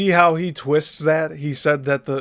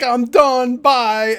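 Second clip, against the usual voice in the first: dismissive quit; 9 semitones higher, 6 dB louder, much slower than usual. Retold or imitated. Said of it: "He's just like".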